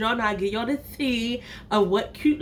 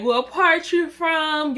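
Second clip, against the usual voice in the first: put-on Jamaican accent; 5 semitones higher, much slower than usual. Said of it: "Am I Jamaican?".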